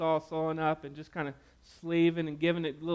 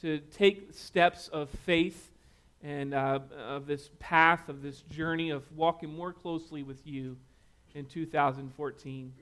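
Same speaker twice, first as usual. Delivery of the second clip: closing prayer; 3 dB quieter than usual. Acted. Pastor prays over the congregation, hushed and earnest. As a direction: pray quietly and sincerely.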